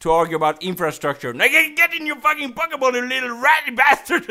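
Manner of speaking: hammed-up scolding that builds into a high outburst; angry rant. Trainer berating a Pikachu that refuses the Pokeball, angry rant.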